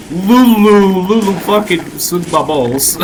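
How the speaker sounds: playful squeaky anime voice. Real, not acted. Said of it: "You sound like an anime girl".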